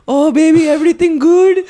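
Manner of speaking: high, cooing mom voice; imitated mom. Son mimics mom checking on him with girls, high mom voice. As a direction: play an intrusive mom, pitched well up. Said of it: "she'll come up and be like".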